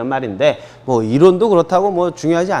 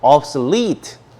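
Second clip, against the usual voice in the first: obsolete, slowly, with the stress on -lete; stress on final syllable; much slower than usual. Shown as a demonstration. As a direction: model "obsolete" for repeating, landing on the last syllable. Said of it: "여기에 강세가 있어요". (obsolete의 마지막 음절 lete에 강세)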